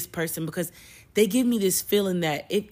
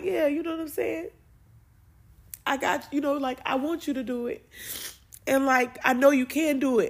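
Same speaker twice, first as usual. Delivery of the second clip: encouraging God; 5 semitones higher than usual. Retold or imitated. God voiced encouraging the speaker.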